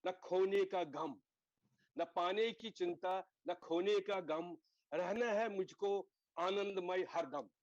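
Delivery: measured, slow couplet recital with each line weighed; reciting a shayari. Shown as a demonstration. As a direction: recite it like a short poem to the class. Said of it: "एक शायरी में बोलता हूँ sir".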